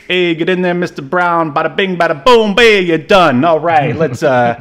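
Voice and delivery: high, loud, fast hammed-up director; imitating a director. Podcaster mimics a hurried director rushing the star, hammed-up. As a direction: play a pushy director barking orders. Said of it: "he's probably like".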